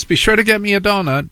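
mock breezy mother. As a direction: call it out lightly from the car. Mother voiced in story.

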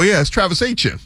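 "Etienne" slurred down to two syllables, AY-chun; slurred New Orleans pronunciation. Shown as a demonstration. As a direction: squash "Etienne" into AY-chun, Louisiana style. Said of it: "you start to slur the words".

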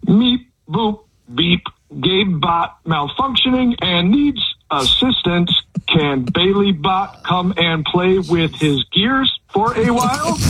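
malfunctioning robot, beeping. Acted. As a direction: stiff mechanical robot voice. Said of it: "he's gotta do it like a malfunctioning robot".

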